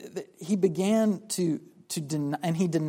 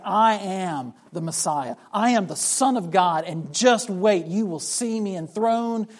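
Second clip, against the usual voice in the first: bold proclamation; 4 dB louder than usual. Retold or imitated. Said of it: "standing up and saying".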